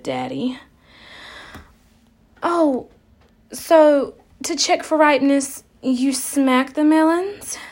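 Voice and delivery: badly faked Southern belle accent; terrible Southern accent. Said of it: "I have a terrible Southern accent".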